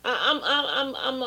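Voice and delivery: fighting back tears; choked up. Real, not acted. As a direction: voice catching on a sob. Pastor breaks off, choked up.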